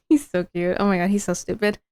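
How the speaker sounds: hushed fond laughing aside; quiet giggly aside. Real, not acted. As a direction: murmur it fondly through a laugh.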